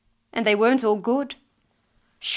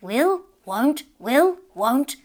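louder, higher, bickering to and fro; arguing back and forth; 4 semitones higher, 5 dB louder, much slower than usual. A narrator's reading. Husband and wife contradicting each other, bickering. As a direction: alternate two stubborn voices, punching each word. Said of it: "They argued back and forth".

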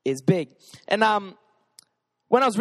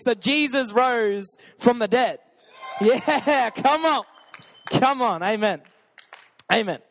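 hype; 3 semitones higher, slower than usual. Real, not acted. Pastor hyping up the congregation.

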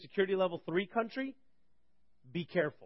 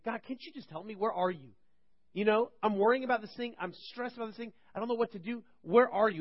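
higher, pleading complaint to God; pleading cry to God; 6 semitones higher, 3 dB louder than usual. Retold or imitated. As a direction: beg God where he is. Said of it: "I cried to God saying".

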